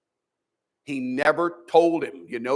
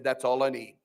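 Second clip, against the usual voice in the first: soft, lower, content "That's all I need"; quiet surrender; 5 semitones lower, 5 dB quieter than usual. Acted. Job humbly accepting God's answer, quiet. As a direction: say "That's all I need" softly, settling the matter. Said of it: "Job shut his mouth and he said".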